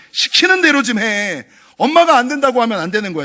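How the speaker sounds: a touch of a bossy mother laying down the law; bossy scolding. Retold or imitated. Mother ordering her child to obey, mildly scolding. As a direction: lecture the child, demanding obedience. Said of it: "아이들을 다 무시하고 감정을 무시하는 말이거든요".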